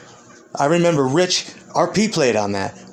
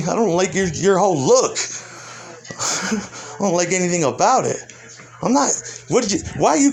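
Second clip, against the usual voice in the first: laughing mockery; 3 semitones higher than usual. Real, not acted. Mocking the critic, laughing.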